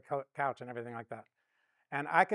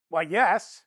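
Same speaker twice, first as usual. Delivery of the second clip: sheepish admission; 5 semitones higher, 12 dB louder than usual. Retold or imitated.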